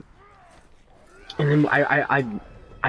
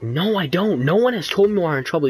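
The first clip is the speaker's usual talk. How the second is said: higher, fast indignant protest; 6 semitones higher than usual. Retold or imitated. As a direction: rush out a high indignant denial. Retold protest to the dean.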